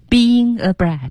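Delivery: BEING A slowly linked as bee-ying-nga; linked key phrase. Shown as a demonstration. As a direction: draw out "being", glide into "a brat". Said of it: "重点在这里". (慢速示范 being a brat 连读)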